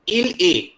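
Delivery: "Il est" with est sounded as "A"; French pronunciation. Shown as a demonstration. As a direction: say "Il est" ending in an ay sound, silent S and T. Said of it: "same sound". ("Il est" में est का उच्चारण "ए")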